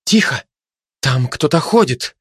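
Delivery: understated startled warning; startled cry. Acted. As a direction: cry out a little in alarm. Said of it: "мать вскрикнула".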